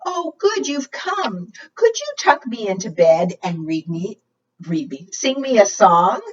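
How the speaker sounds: large dragon. Acted. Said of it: "And the large-sized dragon said".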